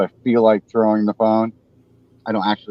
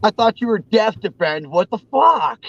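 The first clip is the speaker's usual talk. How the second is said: mock chat viewers; 10 semitones higher than usual. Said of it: "people in chat will be like".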